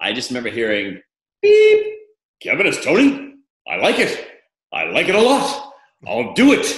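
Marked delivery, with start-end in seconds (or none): 1.4-6.8 very high, loud, slow, drawn-out voice. Retelling an answering machine message from Tony Randall: Tony Randall impression. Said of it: "That was a great impersonation".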